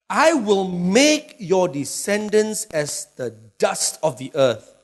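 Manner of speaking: slow, drawn-out reading of the verse; scripture reading. Acted. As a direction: read the promise slowly, with weight. Reads scripture slowly.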